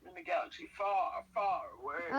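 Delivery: lightly hushed epic narrator; a hint of a movie trailer narrator; hushed nature documentary. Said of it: "Let me get in my narrator voice".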